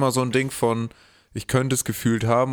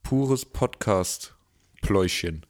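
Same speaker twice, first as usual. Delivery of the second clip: slow title announcement; 3 semitones lower, much slower than usual. Shown as a demonstration. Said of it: "ein schöner Titel für die Folge".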